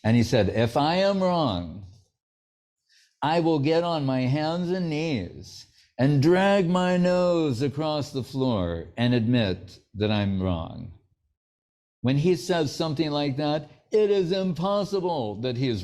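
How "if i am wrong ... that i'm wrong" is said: solemn vow. Retold or imitated. Guru's solemn vow, retold.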